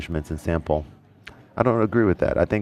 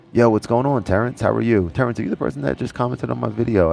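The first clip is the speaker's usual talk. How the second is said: excited greeting; 6 semitones higher than usual. Real, not acted. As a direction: greet the viewer with a happy burst. Greets a viewer in live chat.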